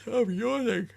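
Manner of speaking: mocking a viewer in a very high put-on voice; squeaky chat voice. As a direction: read the chat message in a silly squeaky voice. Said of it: "He says".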